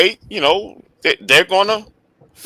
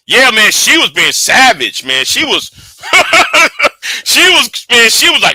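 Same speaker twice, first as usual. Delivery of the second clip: higher, laughing delivery; 6 semitones higher than usual. Real, not acted. Streamer cracking up about the host's burn. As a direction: crack up while describing.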